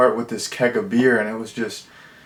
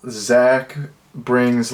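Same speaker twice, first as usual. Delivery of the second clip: normal talking voice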